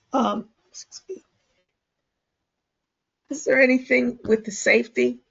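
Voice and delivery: hoarse, failing voice; losing voice. Real, not acted. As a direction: voice giving out mid-meeting. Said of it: "I'm losing my voice here".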